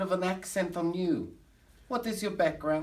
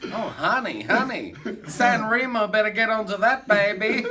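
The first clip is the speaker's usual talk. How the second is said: loud, excited showbiz gushing; 5 semitones higher, 5 dB louder than usual. Pretend. Showman praising child's homemade pasta, excited. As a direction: gush over it, raised and emphatic.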